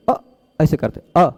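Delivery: अ said short with the mouth barely open; closed short a. Shown as a demonstration. Teacher demonstrating a closed short अ to the class. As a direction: say अ short, lips almost closed. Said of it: "मुंह कम खोलते".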